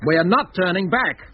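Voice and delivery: slow and immovable, leaning on not; firm refusal. Acted. Designer defying the captain about turning back, slow and firm. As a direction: dig in your heels, word by word.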